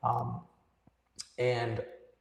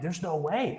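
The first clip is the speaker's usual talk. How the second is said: higher, rising note of incredulity; mild disbelief; 4 semitones higher than usual. Retold or imitated. Young believer reacting to Calvinism, incredulous. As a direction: retell a stunned refusal to believe it.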